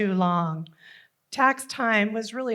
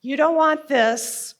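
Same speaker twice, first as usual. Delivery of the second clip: controlling father; 3 semitones higher, 5 dB louder than usual. Acted. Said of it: "His favorite phrases were".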